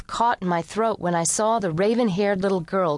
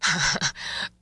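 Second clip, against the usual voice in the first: short low amused chuckle; a quiet dry laugh; 3 semitones lower, 3 dB quieter than usual. Acted. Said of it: "He laughed again".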